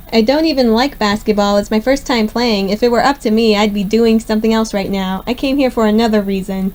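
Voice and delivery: panting between phrases; breathless from running the court; out of breath. Real, not acted. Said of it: "I can hear you breathing".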